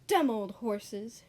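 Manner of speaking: slow, sulky muttering; sulky grumble. Acted. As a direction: grumble it slowly, sulking.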